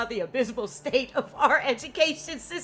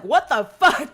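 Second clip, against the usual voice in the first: laughing shock; 5 semitones higher, 11 dB louder, slower than usual. Retold or imitated. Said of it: "he was like".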